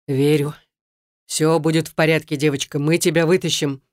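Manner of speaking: lightly voiced steady rescuer; Valeriy reassures the girl, firm and steady. A narrator's reading. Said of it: "твёрдо сказал Валерий".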